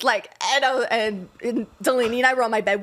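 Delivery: ordinary talk, nothing marked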